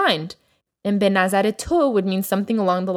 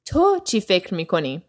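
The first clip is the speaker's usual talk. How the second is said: تو said first and strongest, the rest quicker; stress on تو; faster than usual. Shown as a demonstration. Teacher showing students the stress on تو. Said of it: "emphasis on the تو".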